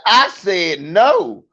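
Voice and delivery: put-on slow, firm little boy's refusal; firm toddler no. Comic mimicking his toddler son refusing a stranger. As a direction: put your foot down, slowly.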